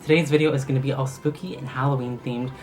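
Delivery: lisping around fake fangs; talking with fangs in. Real, not acted. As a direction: speak through plastic vampire fangs. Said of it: "I'm talking in a weird voice right now because I have these amazing fangs in".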